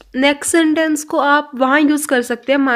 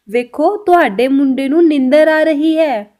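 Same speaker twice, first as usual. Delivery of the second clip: slow, careful Punjabi sentence; slow Punjabi demo; 5 dB louder, slower than usual. Shown as a demonstration. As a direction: spell it out slowly for learners. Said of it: "Punjabi में कैसे बोला जाएगा?". (धीमे-धीमे सिखाते हुए पंजाबी में)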